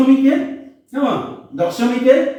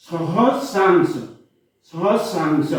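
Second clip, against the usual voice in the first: সহস্রাংশ stretched very slowly; slow model word; 5 semitones lower, much slower than usual. Shown as a demonstration. Teacher to pupils, modelling সহস্রাংশ very slowly. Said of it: "drawn out for the class".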